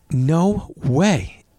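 high, far-off gasp of disbelief; hammed-up no way; mock disbelief. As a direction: play it like you can't believe it. Reacting to zookeeper reveal.

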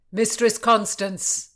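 loud, drawn-out hail; shouted greeting. A narrator's reading. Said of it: "Rutland shouted as he thundered in".

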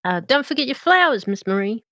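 Mater voice. Acted. Mater reminding politely.

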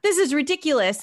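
captain balking at the thirteen-thousand-dollar invoice, mock outrage; shocked outrage. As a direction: squeal it like the bill just floored you. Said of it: "And the captain's like".

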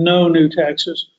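each word of 'No new taxes' spaced out slowly, NO stressed; mild imitation of a campaign promise; emphatic slow quote. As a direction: lean on the pledge, slow and deliberate. Quoting Bush's pledge speech.

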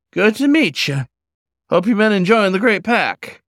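put-on high, friendly old-timer hello; a kindly old drifter calling out; old wolf, folksy greeting. Old wolf greets the pup at the campfire, folksy and high.

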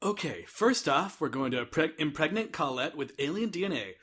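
casually indifferent scientist; nonchalant. Retold or imitated. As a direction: toss it off like nothing matters. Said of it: "really nonchalantly like".

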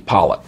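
"Pollitt", first syllable like "doll"; East Tennessee flattened I. Shown as a demonstration. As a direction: say Pollitt as spelt P-O-L-I-T. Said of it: "It's almost like it's P O L I T".

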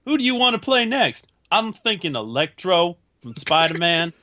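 lightly voiced celebrity impression; a hint of a mock movie-star voice; Jamie Foxx impression. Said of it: "That's a terrible Jamie Foxx impression".

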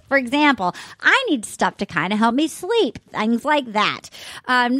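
casual, conversational sponsor read; chatty host endorsing a product; podcast ad read. Real, not acted. Host reads vitamin sponsor to listeners, casual ad read.

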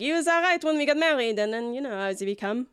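lightly voiced wife griping about a husband; a hint of a disgruntled wife; aggrieved wife. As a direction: start high and trail down as you complain.

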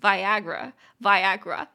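"Viagra" slowly, punching the A; loud, careful demo of "Viagra", accent on AG; stress on second syllable. Shown as a demonstration. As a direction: hit the middle of "Viagra": vi-AG-ra. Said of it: "在第二音节".

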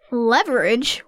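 Leverage? asked with a rising, puzzled tune; puzzled question. Real, not acted. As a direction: ask Leverage? like a strange new word. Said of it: "What does that even mean?".

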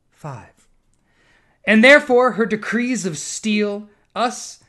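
measured poetry recital; poem reading. Acted. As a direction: recite the verses slowly.

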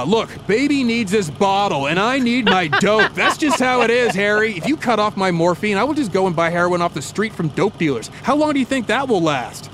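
a hammed-up junkie senator pleading for his fix; demanding addict senator. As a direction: senator whining at the drug chief for his dope. McCarthy demands his morphine.

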